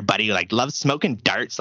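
put-on drawn-out far Eastern Canadian accent. Showing how Eastern Canadians talk, Eastern Canadian accent. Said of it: "your fucking Eastern Canadians there".

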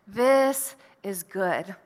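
slow and delighted, said with a smile; smiling God voice. Pretend. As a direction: let the smile be heard in it. God's voice quoted, smiling.

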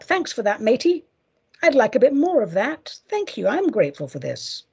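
chirpy, casual thank-you voice; breezy mock gratitude; cheery thanks to universe. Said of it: "giving the universe a thumbs up".

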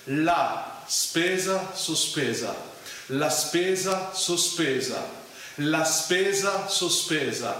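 moderate pace, clearly repeated; picking up the tempo. Shown as a demonstration. Teacher speeding up the phrase for learners, moderate pace. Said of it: "Increase the tempo".

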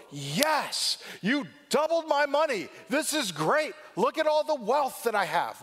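high, loud, gloating over the money; gloating master. Pretend. Master gloating at servant over money, high and loud. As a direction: crow over the doubled wealth. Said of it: "Notice that he doesn't go".

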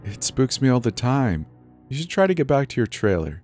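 high-voiced, kindly manager; assuring. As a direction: reassure and gently send them home. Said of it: "she assured".

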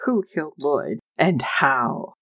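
low, slowing, mock-solemn questioning; mock dramatic. Podcaster imitating lawyer Isaac asking who had the motive, mock dramatic. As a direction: lay out the questions with mild courtroom drama. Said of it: "saying it all dramatic".

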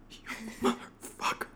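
soft, wavering hurt whimper; mock tearful betrayal. Wronged partner hearing his confession, mock weeping. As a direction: whimper as if silently weeping, hammed up. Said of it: "I was Robin Wright sitting there".

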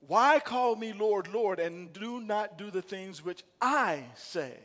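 slow, with "I" in "which I say" weighted; stress on I. Shown as a demonstration. Pastor showing the congregation where the stress goes, on "I". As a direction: draw out the line and land on "I". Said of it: "Emphasis on I".

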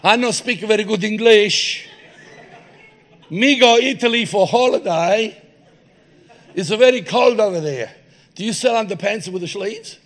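mock Italian customer asking for underpants; Italian accent. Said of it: "He goes".

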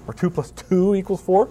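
"four" stressed with a rising question tune. Shown as a demonstration. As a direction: put the weight on "four", lilting up. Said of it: "you don't like my emphasis".

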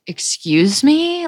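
drawn-out, high-pitched offended question; indignant retort. Retold or imitated. Insulted girl answering back to him, indignant. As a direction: act out taken-aback disbelief, stretched slowly upward. Retelling her offended comeback.

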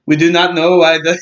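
a light mock Swedish accent on a TV expert; half-hearted Swedish-ish expert voice; terrible Swedish accent. Mocking the film's experts in a bad Swedish accent. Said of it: "that's my terrible accent".

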